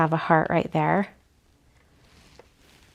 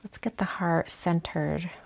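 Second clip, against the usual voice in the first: whispering; 6 dB quieter than usual. Real, not acted. Quiet planning to herself.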